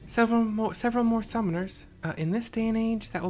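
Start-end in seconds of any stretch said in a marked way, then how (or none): 0.1-1.8 high, loud disbelieving echo; incredulous. Acted. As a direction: repeat it in shocked disbelief.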